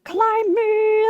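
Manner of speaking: lightly put-on mountain voice, drawn out; beckoning mountain. Mountain luring Lemon to climb it, lightly voiced beckoning. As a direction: call enticingly, as if luring someone in. Mountain calling to him seductively.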